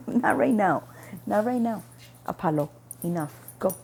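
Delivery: loud firm refusal to the pet; firm no to dog. Real, not acted. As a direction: tell the dog off firmly. Telling dog off.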